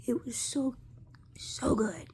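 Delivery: breathy whisper savoring the memory; soft whispered delight over a carrot cake; dreamy whisper. Real, not acted. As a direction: whisper it like the taste is still there.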